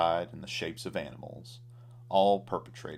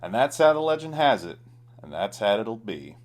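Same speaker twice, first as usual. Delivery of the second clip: high, loud, fast storyteller flourish; grand flourish; 4 semitones higher, 8 dB louder than usual. A narrator's reading. Narrator closes the tale, loud grand flourish. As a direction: announce the legend big.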